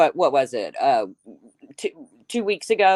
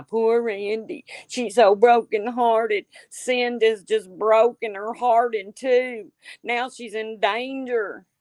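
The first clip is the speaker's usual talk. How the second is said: slow, higher sing-song fake sympathy; mock pity; 4 semitones higher, slower than usual. Streamer mocking Randy's heartbreak to chat, slow fake sympathy. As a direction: lay the false sorrow on thick, slowly.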